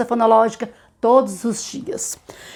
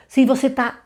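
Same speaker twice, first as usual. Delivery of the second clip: usual speaking voice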